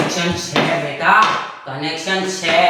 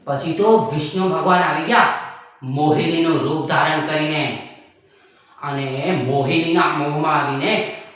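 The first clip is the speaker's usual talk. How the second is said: storytelling grandpa. Acted. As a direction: tell the old myth like a patient grandfather. Grandpa tells a myth.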